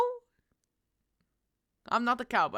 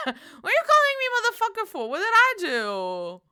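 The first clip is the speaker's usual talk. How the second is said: laughing indignation; 9 semitones higher, 5 dB louder than usual. Real, not acted. Mock offended reply.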